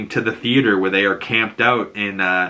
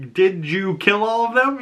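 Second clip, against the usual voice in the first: very high pressing question; acted interrogation; 11 semitones higher than usual. Ellie asks Joel about the hospital, pressing. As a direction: push the question up high, retelling a confrontation. Retold tearful confrontation of Joel.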